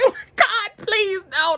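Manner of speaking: high, tearful begging; begging at the hospital, crying; crying plea. Retold or imitated. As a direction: plead through tears. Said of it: "I'm crying".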